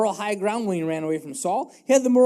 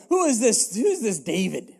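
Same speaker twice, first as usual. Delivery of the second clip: mocking; 3 semitones higher than usual. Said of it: "and so he just mocks him".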